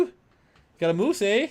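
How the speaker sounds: slow, high, loud Canadian caricature with "eh"; mock Canadian accent. Shown as a demonstration. Co-host redoing his moose line, slow mock Canadian accent. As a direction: draw it out like a cartoon Canadian, eh. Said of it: "do a Canadian accent".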